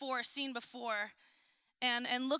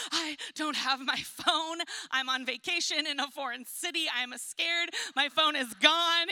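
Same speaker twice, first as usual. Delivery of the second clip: retold panic; 3 dB louder than usual. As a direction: play up the lost-phone alarm to husband. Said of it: "I am full on panic mode".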